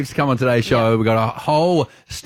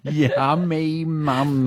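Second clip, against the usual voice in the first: mocking drawl; 4 dB quieter, much slower than usual. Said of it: "the way I was saying it".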